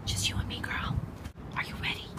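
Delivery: breathy whispered seduction to the moss; hushed intimate whisper. Pretend. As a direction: whisper it like a lover. Whispering to moss before kissing.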